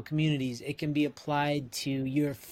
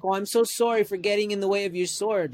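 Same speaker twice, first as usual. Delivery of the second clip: over-apologetic Canadian; 5 semitones higher, 3 dB louder than usual. Retold or imitated. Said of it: "'Cause that's the Canadian spirit".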